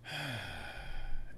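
soft, long contented exhale; happy sigh. Shown as a demonstration. Fly fisher feeling the river against his legs, soft happy sigh. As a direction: breathe it all out, softly and happily. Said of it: "it's a happy sigh".

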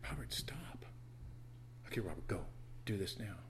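soft unvoiced whisper, gentle nudges; whispering God. God gently nudging the pastor, in a soft whisper. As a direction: whisper it like a patient guide. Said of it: "He just whispers to me".

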